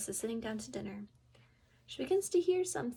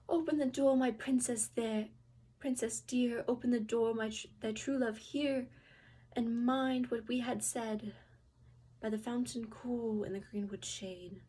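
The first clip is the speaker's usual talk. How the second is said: calling through door; 4 dB louder than usual. Acted. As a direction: call again, louder and pleading. Frog knocks again.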